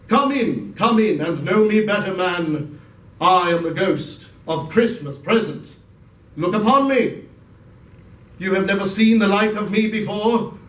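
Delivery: booming, hearty giant spirit; jovial giant ghost. Acted. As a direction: welcome Scrooge in grandly. Ghost of Christmas Present speaks.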